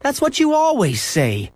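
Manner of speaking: high, slow whiny complaint; wailing. A narrator's reading. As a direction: stretch it out in a high childish wail. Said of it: "Henry wailed".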